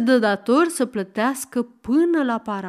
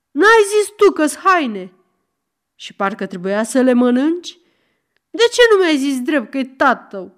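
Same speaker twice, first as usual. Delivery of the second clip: angry quarrel shout; 3 semitones higher, 6 dB louder than usual. Acted. Quarrel continues loudly.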